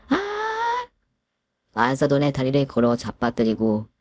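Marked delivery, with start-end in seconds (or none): 0.1-0.9 sharp, much higher cry of pain; in-law crying out as she is thrown down; pained scream. Acted. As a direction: yelp as if suddenly struck. In-law cries out when attacked.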